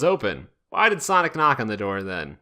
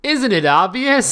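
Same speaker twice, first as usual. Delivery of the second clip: sneer; 8 semitones higher, 4 dB louder than usual. Acted. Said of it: "Sonic sneered".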